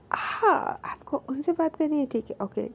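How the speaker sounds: imitating a hurt girlfriend going cold; cold and curt. Angry girlfriend hangs up curtly. (रूठी हुई, धीमी और रूखी आवाज़)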